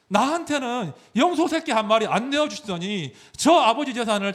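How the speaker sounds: put-on hurt older son venting at his father; indignant, aggrieved complaint that fades to a mutter; angry son. Son confronting his father before the village, angry and hurt. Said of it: "이 첫째가 화가 나가지고 서운하다고".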